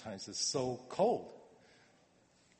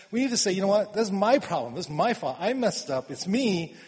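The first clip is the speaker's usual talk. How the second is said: emphatic confession; 5 semitones higher, 5 dB louder than usual. Acted. Urging confession, raised voice.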